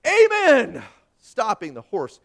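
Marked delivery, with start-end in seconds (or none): 0.0-0.8 high, very loud, drawn-out shout; urgent full-voice holler; desperate shout. A narrator's reading. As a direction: shout it at the last possible moment. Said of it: "and he shouted".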